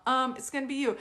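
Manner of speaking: playfully single them out; mock dad. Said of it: "And he's all".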